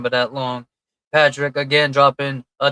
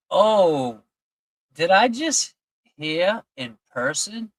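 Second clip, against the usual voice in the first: surprised; 4 semitones higher, slower than usual. Real, not acted. Surprised reaction to a comment.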